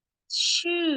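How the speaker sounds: teacher showing the falling tone on ชื่อ. Shown as a demonstration. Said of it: "falling tone".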